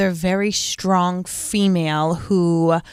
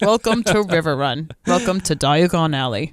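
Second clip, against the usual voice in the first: lower, grand welcoming guide, imitated; low husky voice; 5 semitones lower than usual. Guide welcomes newcomers to River Run, imitated low husky voice. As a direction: lower your voice and announce the place. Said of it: "they both had this low, husky voice".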